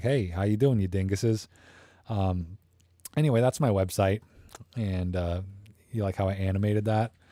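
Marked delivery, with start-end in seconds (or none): none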